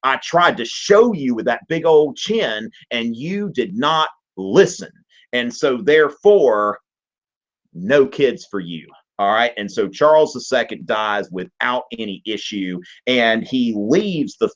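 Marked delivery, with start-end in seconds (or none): 0.0-8.9 a slow, lightly voiced scolding from nature. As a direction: nature calmly saying I told you so, slowly. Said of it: "nature just turns off the tap and says".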